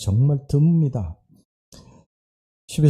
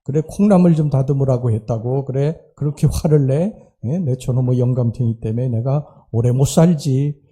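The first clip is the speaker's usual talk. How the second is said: lightly voiced old woman nagging; a hint of a cranky grandma muttering back; grumbling old wife. Deaf wife grumbles at her husband, lightly voiced nagging. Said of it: "할머니가 뒤에다 대고 이렇게 이야기를 합니다".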